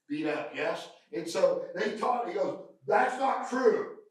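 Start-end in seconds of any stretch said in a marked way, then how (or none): 2.9-4.0 retold protest. Retold indignant denial by trainee.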